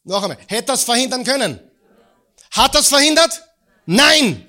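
rising to a full shout; building preacher shout. Real, not acted. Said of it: "Ja oder nein?".

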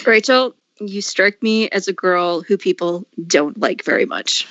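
low, slow, dry judge voice; Simon Cowell impression. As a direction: deliver it dry like a harsh judge. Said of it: "I really wanna be Simon Cowell".

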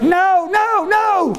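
high, playful mock protest; a priest teasing a bride-to-be, mock alarm. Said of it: "I said it kind of with a smile, so she knew I was teasing her".

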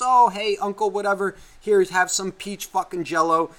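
a hint of a sweet kid offering food; little cousin. Host mimics little cousin offering Jell-O, lightly voiced. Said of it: "little cousin that goes".

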